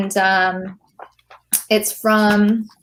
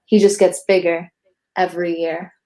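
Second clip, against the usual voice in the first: poem recital; 3 semitones lower than usual. Acted. Poet reads her own poem to the hosts, measured recital. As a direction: let each rhyme land like a verse.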